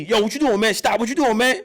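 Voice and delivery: OG yelling stop. Retold or imitated. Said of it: "the O G".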